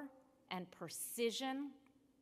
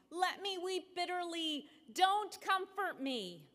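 God weeping; 7 semitones higher than usual. A narrator's reading. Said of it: "God cried".

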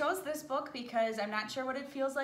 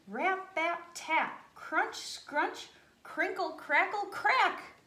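building excitement; 6 semitones higher, much slower than usual. A narrator's reading. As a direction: build the cracking to a peak. Ice breaking climax of story.

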